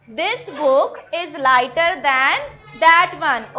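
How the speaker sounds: slow classroom dictation; slow model sentence. Shown as a demonstration. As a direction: lay the sentence out for children. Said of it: "teacher models full sentence slowly".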